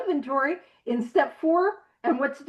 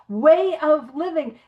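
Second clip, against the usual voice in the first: "Way of living" slow, each word leaned on; slow, weighty "Way of living"; stress on way of living; 5 dB louder, slower than usual. Shown as a demonstration. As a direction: underline the phrase slowly and firmly. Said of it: "I want us to emphasize way of living".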